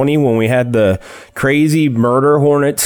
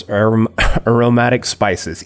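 laughing at a stumble. Real, not acted. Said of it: "Easy for me to say".

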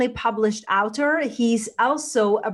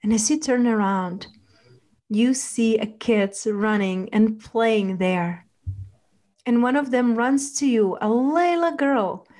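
guided meditation. Acted. Leads a relaxation visualization.

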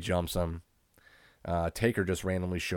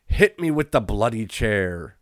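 mock British; 3 semitones higher, 7 dB louder, slower than usual. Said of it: "I don't know why Vince thought he was British".

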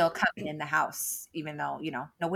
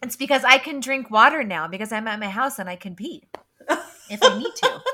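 swallowed wrong way; 5 semitones higher, 7 dB louder than usual. Real, not acted. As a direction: still recovering from choking on water. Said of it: "As I'm choking on my water".

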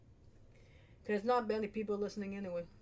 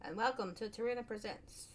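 put-on higher-pitched, off-target Irish accent; attempted Irish accent; 5 semitones higher than usual. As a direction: have a go at a lilting Irish brogue and miss. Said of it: "I don't know what accent I'm trying to".

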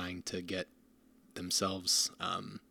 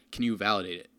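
CAN leaned on, a pointed request falling at the end; lightly mock a church asking to be approved; mock pushy ask; 4 dB louder, faster than usual. White church presses the speaker: mock pushy ask. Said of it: "they've sort of said".

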